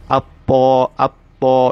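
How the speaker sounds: At-Ta with the l merged into the t; at-Ta, no l heard, straight into a doubled t; assimilated lam. Shown as a demonstration. Teacher showing students the silent lam. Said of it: "not even going to let anybody to realize that there was a Lam".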